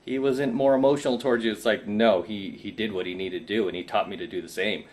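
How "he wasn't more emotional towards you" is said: higher, mock-pitying voice; mocking sympathetic women. Mocking female commenters pitying him, higher mock voice. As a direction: parody fake sympathy, pitched up. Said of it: "some women come on my channel like".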